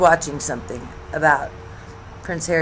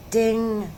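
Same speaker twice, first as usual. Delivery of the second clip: imitated phone ding; 5 semitones higher than usual. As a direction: make a small "ding" like a phone alert. Mimics a text alert sound.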